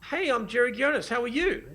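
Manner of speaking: retold friendly hello; friendly greeting. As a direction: introduce yourself to disarm a stranger. Acts out introducing himself to her.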